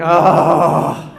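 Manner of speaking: loud low "oh!"; chest-voice groan. Shown as a demonstration. Sports fan whose team is losing, loud low groan. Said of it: "when your sports team is losing".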